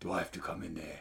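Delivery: put-on low, soft, quiet London street accent. Speaker recalls an episode where Mickey goes full Luther, mimicking: Idris Elba London street accent. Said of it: "that Idris Elba, like, central London street accent".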